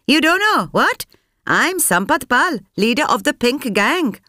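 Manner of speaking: high, sharp demand at the officer; snapping. A narrator's reading. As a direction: snap it at the officer, high and hard. Proud self-introduction to officer.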